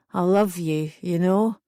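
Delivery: lightly voiced drunk declaration; mild boozy slur; drunken slur. A narrator's reading. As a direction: slur it a little, sentimental with drink. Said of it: "he slurred".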